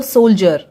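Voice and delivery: सोल्जर ending in "jur"; DIER read as jar. Shown as a demonstration. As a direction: say सोल्जर with a j sound for the D. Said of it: "तो उसे हम जर पढ़ते". (सोल्जर के अंत में जर बोलकर)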